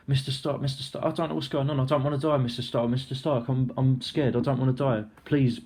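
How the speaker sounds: high, hurried, scared pleading; a lightly voiced frightened kid begging; pleading Peter Parker. Peter Parker begging Mister Stark, high and frightened. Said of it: "he's starting to cry".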